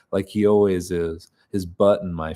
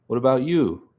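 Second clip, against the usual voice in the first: higher-pitched, lilting question; raised pitch on the question; higher character voice; 5 semitones higher than usual. Acted. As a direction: ask it in the other character's higher voice. Flubbed character voice, then redone.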